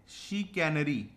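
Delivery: शिकैनरी slowly sounded out, "shi-kainari". Shown as a demonstration. Teacher respelling it for students, slow sounded-out word. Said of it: "अगर हम सी को".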